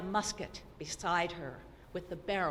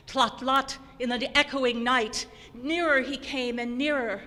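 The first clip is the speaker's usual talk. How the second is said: rising hoofbeats; 4 semitones higher, 7 dB louder than usual. A narrator's reading. Hoofbeats now close.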